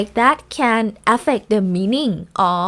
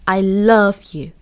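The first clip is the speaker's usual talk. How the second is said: "I love you" with weight on LOVE, then falling; confirming stress on LOVE; 2 semitones lower than usual. Shown as a demonstration. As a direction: confirm the feeling with a firm "love". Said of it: "the confirm of the feeling love".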